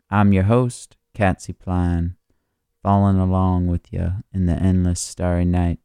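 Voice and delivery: sultry late-night radio host; breathy vintage purr. Acted. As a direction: purr the welcome like old-time radio.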